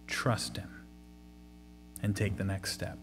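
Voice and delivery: whispered exhortation. Real, not acted. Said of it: "closing exhortation, whispered".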